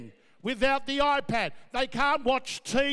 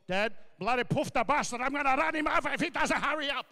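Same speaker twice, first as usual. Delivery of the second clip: barking dad. Retold or imitated. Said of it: "Barking instructions at me".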